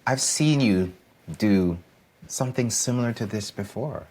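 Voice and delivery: supportive parent voice; reassuring. Retold or imitated. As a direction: encourage the nervous child. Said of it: "no, to say that".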